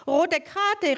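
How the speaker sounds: high called out protest; calling out. Acted. Footballer calls out at the man with the bike. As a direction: call it across the pitch. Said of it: "rief jemand".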